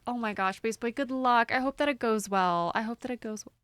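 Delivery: hiccuping while talking; fighting back hiccups; suppressing hiccups. Real, not acted. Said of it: "I have the hiccups all of a sudden".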